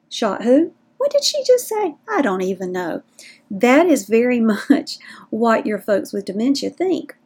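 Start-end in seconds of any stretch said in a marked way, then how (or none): 0.1-3.0 mock bafflement, pitch leaping up midway; baffled listener. Confused listener reacting to a rushed grocery request, mock bafflement. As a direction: play the lost listener, squeak the question high.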